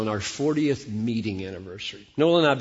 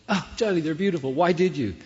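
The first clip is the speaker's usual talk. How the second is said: lightly voiced delighted wife; 5 semitones higher than usual. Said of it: "replay the video".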